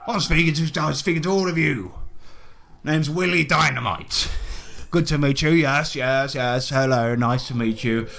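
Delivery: hearty, swearing colonial gent greeting the party; a lightly voiced jolly British explorer; bluff British adventurer. Willie greets the newcomers, a lightly voiced hearty British gent.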